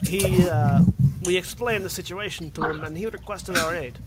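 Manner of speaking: put-on wobbly accent between Scottish and Russian. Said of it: "get out of this fucking accent".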